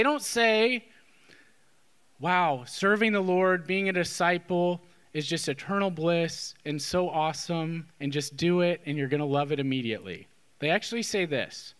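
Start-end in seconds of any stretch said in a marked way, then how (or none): 2.2-10.3 low, deadpan fake enthusiasm; mock enthusiasm. What bishops don't say about discipleship, mock enthusiasm. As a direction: gush without meaning it, pitched low.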